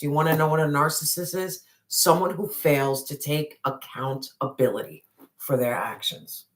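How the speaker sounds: breathless, rushing through the words; talking out of breath after a rant. Real, not acted. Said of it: "I'm out of breath".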